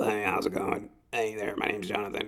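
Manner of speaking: put-on electrolarynx voice. Joking about emphysema leaving a hole in the throat: talking through a throat hole. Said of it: "you have to talk like this".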